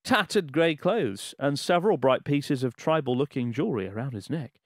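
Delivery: measured, emphatic letter-reading voice; story read-aloud. Acted. Host reading a listener's Japan travel story aloud, dramatic narration.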